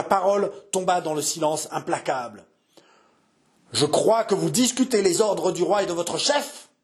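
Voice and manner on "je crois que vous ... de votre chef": angry rebuke. Acted. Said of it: "Une effroyable colère".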